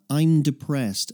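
"I'm depressed" said slowly, letting it sink in; slow, weighed. Shown as a demonstration. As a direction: let "I'm depressed" land slowly and heavily. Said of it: "So think about that".

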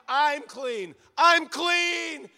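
high, loud repeated cry of joy; loud joyful cry. Acted. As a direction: announce your healing to the crowd. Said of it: "why would he do it with a loud voice".

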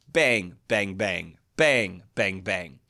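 "bang, bang" in even pairs, like drum hits; a toddler's drumming on the word "bang"; rhythmic banging. Retold or imitated. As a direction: chant each "bang" as a steady beat. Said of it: "He likes banging rhythmically".

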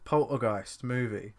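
slow, spelled-out command to the phone; slow repeat for the phone. Real, not acted. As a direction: say it slowly so the phone gets it.

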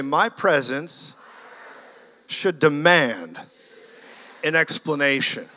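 slow, weighty, every word spaced out; slow call-and-response line. Shown as a demonstration. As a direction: lead the crowd word by word. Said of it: "Everybody say that by faith".

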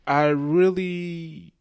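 slow, high laughing confession; giggly, drawn-out confession. Real, not acted. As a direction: laugh through the admission.

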